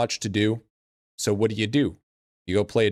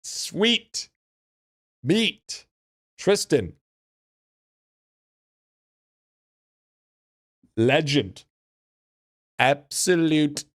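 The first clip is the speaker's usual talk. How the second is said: excited; 4 semitones higher, much slower than usual. Real, not acted. Hyped reaction to donation.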